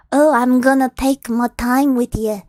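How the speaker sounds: lightly voiced gloating ogre; villain taunting his victim, mildly voiced; a hint of menacing ogre. Ogre threatens the woman.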